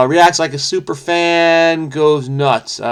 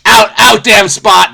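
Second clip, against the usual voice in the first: Lady Macbeth; 6 semitones higher, 7 dB louder, slower than usual. Acted. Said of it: "what did Lady Macbeth say".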